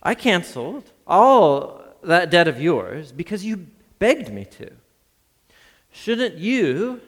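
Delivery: a master angrily confronting his servant; angry master. A narrator's reading. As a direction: scold the servant who showed no mercy.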